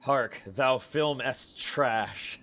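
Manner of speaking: slow, mock Shakespearean voice; hammed-up old English declaration. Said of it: "speaking in old English".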